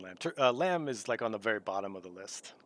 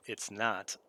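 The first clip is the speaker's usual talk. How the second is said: talking while chewing; words around a bite of food; mouth full; 5 semitones lower, 5 dB quieter, slower than usual. Real, not acted. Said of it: "what are you eating?".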